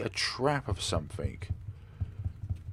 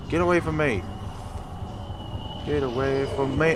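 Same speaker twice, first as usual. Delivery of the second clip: fear turning to anger; 6 semitones higher, 3 dB louder than usual. Real, not acted. Chased by monster.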